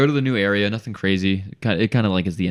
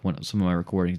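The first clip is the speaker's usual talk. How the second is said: ordinary talk, nothing marked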